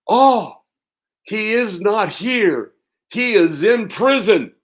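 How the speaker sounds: high, loud blurted stage line; hammed-up child angel proclaiming; nervous boy actor. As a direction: blurt it out high and proud, like a kid who just got the cue.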